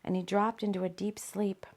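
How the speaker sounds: soft whisper, letting it drift off; whispered fade. A narrator's reading. Narrator trailing off as Rob falls asleep, whispered. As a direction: breathe the words out as he sinks into sleep.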